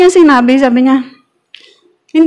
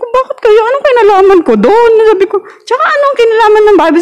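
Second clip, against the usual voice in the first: retold heated reply; 9 semitones higher than usual. Retelling her own angry reply.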